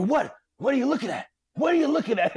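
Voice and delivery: mock Shining-style menace; Jack Nicholson menace. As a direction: taunt him like a madman. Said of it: "transform into Jack Nicholson".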